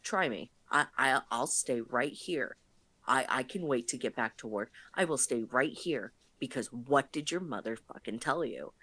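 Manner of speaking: a low, steady standoff voice; calm threat. Retold or imitated. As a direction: dare him to try it. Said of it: "I'm just like".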